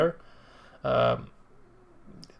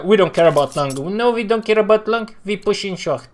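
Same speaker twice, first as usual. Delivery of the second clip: higher mock player voice; 6 semitones higher, 4 dB louder than usual. Streamer imitating players who push short, higher mocking voice. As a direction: imitate a stubborn team call. Mocks the players' reckless call.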